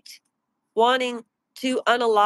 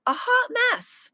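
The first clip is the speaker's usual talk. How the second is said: mocking; 13 semitones higher than usual. Repeated insult, very high, far.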